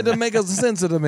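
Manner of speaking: put-on Italian English with added vowels; cartoon Italian accent; mock Italian accent. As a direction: playfully slip into an Italian accent. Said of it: "I'm speaking in Italian".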